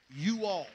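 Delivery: "You all" in two distinct words; mock-proper "You all", each word given its room; careful correction. Shown as a demonstration. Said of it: "Is that better?".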